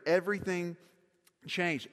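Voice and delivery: ordinary talk, nothing marked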